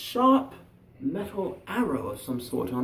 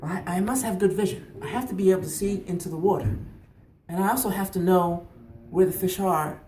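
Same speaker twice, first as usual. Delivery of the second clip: put-on higher, louder young pupil; keen boy; 4 semitones higher, 6 dB louder than usual. Boy answering fisherman's question about the skill, keen. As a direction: work it out aloud, earnestly.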